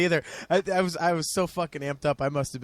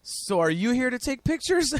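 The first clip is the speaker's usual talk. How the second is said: imitated musician question; 8 semitones higher, slower than usual. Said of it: "points at her and goes".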